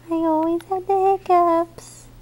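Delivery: put-on high little baby voice; baby's voice. Mom speaks as baby telling Daddy, high baby voice.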